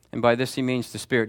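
normal talking voice

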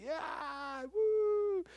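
a high, half-crying whoop of relief; mock cheer. Debt-free owner whooping at the mailed paperwork, high and joyful. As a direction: cheer like the loan is finally paid. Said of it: "And you're like".

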